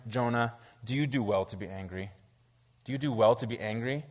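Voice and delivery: a touch of tender reproof; gentle reproof. Acted. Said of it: "God so tenderly reproves Jonah, gently speaks to him".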